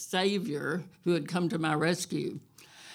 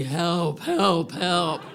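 calling for help; 4 dB louder, much slower than usual. Shown as a demonstration. Stranded woman shows the cattle-call help she needed. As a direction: call out from the chest. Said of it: "It was gonna have to be".

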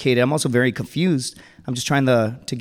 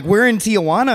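louder, high-pitched incredulous protest; alarmed disbelief; 6 semitones higher, 5 dB louder than usual. Acted. Arrested Marine confronting his buddy, alarmed disbelief. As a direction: throw the fact at your buddy, aghast.

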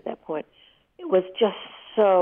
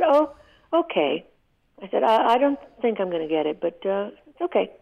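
high, bright put-on cheer; fake breezy; 4 semitones higher than usual. Wife hiding her hurt from her husband with high fake cheer. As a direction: pretend it's fine, voice lifted high. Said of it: "And I lied to him".

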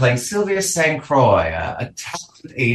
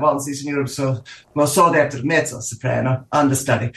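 put-on vague Eastern European accent. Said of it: "that vaguely Eastern European ... accent".

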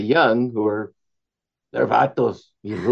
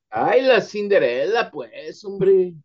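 high, louder playful auntie exclaiming; mock Mexican auntie; 8 semitones higher, 4 dB louder, slower than usual. Answering the question about Cinderella as a playful tía. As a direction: sing it out like a fond tía.

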